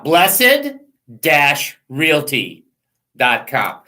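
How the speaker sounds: each word set apart, very slow; slow, spelled out. Shown as a demonstration. Host slowly spelling out the realtor's website for listeners. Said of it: "Okay, now watch".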